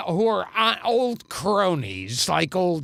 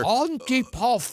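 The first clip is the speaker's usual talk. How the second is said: halting movie-monster voice, higher-pitched; Karloff monster; 4 semitones higher than usual. Acted. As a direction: utter one word as a lumbering monster. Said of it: "like Karloff saying the one word as the monster".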